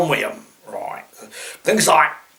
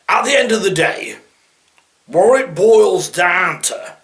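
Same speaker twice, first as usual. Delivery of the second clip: mocking cliché; 4 semitones higher than usual. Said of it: "saying the same thing over and over".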